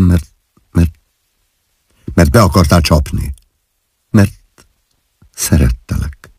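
calm him down tenderly; gently soothing. A narrator's reading. Wife gently soothing her furious husband. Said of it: "szeliden csillapítva".

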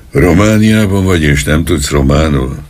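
sharp, rising, incredulous demand; angry question. Acted. Policeman angrily questioning the old Székely man. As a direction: snap it at him in disbelief. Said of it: "kérdezte a rendőr haragosan".

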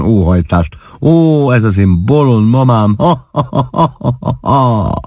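high, laughing speech with ha-ha bursts; hammed-up merry cackling; roaring with laughter. A narrator's reading. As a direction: act helpless amusement between peals of laughter. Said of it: "Klárika úgy kaszagott, de úgy kaszagott".

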